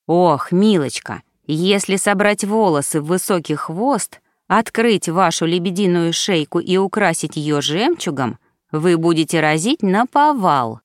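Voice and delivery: lightly camp elf stylist; mannered. Acted. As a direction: coo it with a gentle camp affectation. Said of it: "жеманно произнёс он".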